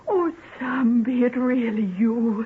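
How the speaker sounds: half-sobbing in disbelief; tearful joy. Acted. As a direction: voice wet with happy tears. Reunited with her sweetheart.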